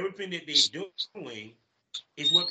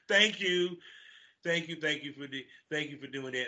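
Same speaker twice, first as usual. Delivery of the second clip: sarcastic thank you. Acted. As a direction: thank them without meaning it. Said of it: "that's a sarcastic thank you".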